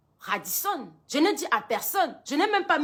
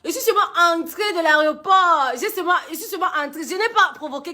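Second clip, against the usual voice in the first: laughing through it; 2 semitones higher, 3 dB louder, faster than usual. Real, not acted. Laughing while retelling her arrest.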